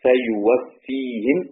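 فيوفيهم slow, ending in -hi-m; فيوفيهِم ببطء; Hafs reading, kasra on ha. Shown as a demonstration. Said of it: "حفص بيقرأ".

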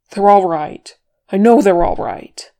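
loud, forceful denial; insistent. A narrator's reading. Dwarf refusing to believe friends are buried, insistent. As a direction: insist on it against all fear.

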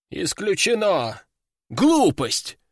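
disagreeing. Acted. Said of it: "не согласился мессир".

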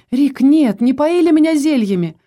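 loud, high denial; emphatic protest. A narrator's reading. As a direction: push back hard against the accusation. Wife protests husband's accusation.

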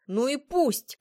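loud, high retort; shouting back. A narrator's reading. Patrick arguing back at Florence, shouting back. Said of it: "крикнул в ответ Патрик".

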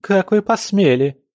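high shrill outrage, rising sharply; a daughter shrieking at her father over her dowry. A narrator's reading. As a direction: screech it at your father in disbelief. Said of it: "заверещала Октавия".

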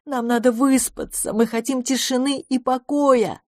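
high-pitched, complaining bat voice; squeaky bats. A narrator's reading. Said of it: "пропищали летучие мыши". (пискливо, как летучая мышь)

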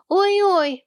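sudden high squeal; a shrill sudden yelp of mock pain. A narrator's reading. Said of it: "вдруг взвизгнул малыш Сэм".

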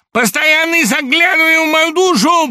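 high, loud, shaking with agitation; hysterical shout. A narrator's reading. Laevsky reeling, shouting high and loud at Samoylenko. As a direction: scream it out, close to a fit.

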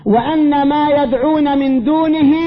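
drawn-out, measured recitation of the verse; slow reverent recitation; slow Quran recitation. Shown as a demonstration. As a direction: recite the verse slowly and solemnly. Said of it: "قال في كتابه".

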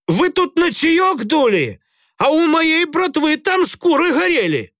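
high, slow bitter snarl; bare your teeth and snarl. A narrator's reading. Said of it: "ощерился Грицай". (ощерившись, зло)

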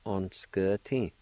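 "On s k t" run together at normal speed; natural pronunciation. Shown as a demonstration. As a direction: say "On s k t" smoothly as a word. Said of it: "like this".

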